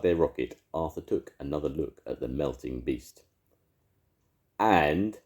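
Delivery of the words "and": shouting. A narrator's reading. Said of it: "shouted Arthur".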